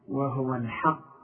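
وهو الحق, slow, with a light ل and a clear ح; teacher showing the correct recitation; correct pronunciation. Shown as a demonstration. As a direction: model وهو الحق slowly, keeping the ل light. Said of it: "وهو الحاء".

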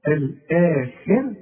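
الآخر very slow, the alif held two beats; الآخر stretched with the long vowel; drawn-out vowel. Shown as a demonstration. Teacher stretching the long vowel for the student. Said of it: "الهمزة في وسط السطر وبعدها المد".

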